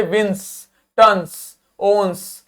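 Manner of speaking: विंस, टन्स, ओन्स with careful endings; teacher's examples विंस, टन्स, ओन्स; words ending in ns. Shown as a demonstration. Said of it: "is usually pronounced with nz".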